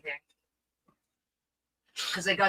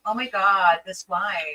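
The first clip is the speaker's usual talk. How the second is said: put-on light, slow girly whine; hammy whiny girl complaining about wine; slower than usual. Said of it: "do the girl voice".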